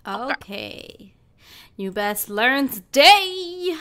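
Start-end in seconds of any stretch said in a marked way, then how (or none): 1.8-3.8 stern warning. Real, not acted. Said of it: "warning trolls, loud and slow".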